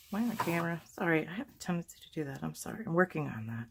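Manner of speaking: hoarse, raspy voice from the flu. Real, not acted. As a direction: talk through a raspy, sick throat. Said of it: "Excuse my raspy voice".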